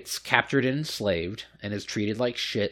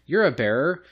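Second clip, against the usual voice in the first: rich noble; 6 semitones higher, 3 dB louder than usual. Retold or imitated. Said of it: "this rich noble fuck is like".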